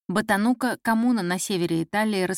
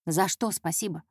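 dismissive echo; 2 semitones lower, 3 dB quieter than usual. Acted. Boss puzzled by the intern's thanks, dismissively. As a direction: brush the thanks aside. Boss's scornful thought at her thanks.

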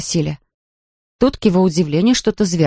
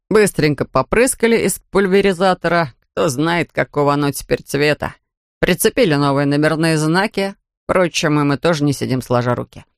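a hint of a lower, sober officer voice; lightly voiced policeman; 3 semitones lower than usual. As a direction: read the policeman slightly lower and matter-of-fact. Policeman continues. (слегка пониженный голос полицейского)

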